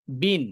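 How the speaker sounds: বিন with the final ন clearly sounded; teacher models বিন, ending on a clear ন; kasratain demo. Shown as a demonstration. Teacher shows students kasratain sound, clear demo. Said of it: "তাহলে বলছি কি?".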